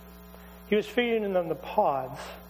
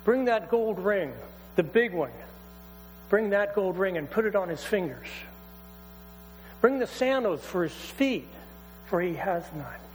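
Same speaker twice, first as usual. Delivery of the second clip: joyful father's orders. Acted. Father calls to servants joyfully.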